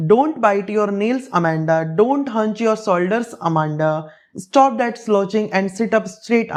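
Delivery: reading a poem slowly to a class; deliberate classroom recitation. Acted. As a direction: read each line slowly and carefully, like a teacher. Teacher reads poem aloud slowly.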